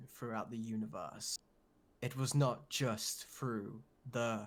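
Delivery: grand trailer narrator voice; epic narration. Pretend. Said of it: "let me give you some epic, epic narration".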